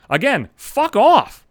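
real exasperated outburst; angry fuck off. Real, not acted. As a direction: spit it out at him. Ranting at the host.

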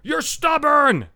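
grandma's high, drawn-out call, mimicked; high-pitched mock holler, stretched out; imitated shout. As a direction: mimic calling across a campfire without full volume. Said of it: "shouts across the campfire".

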